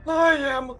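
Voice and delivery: high, hammy Magneto impression. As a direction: quote him high and dramatic. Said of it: "one of my favorite lines is just like".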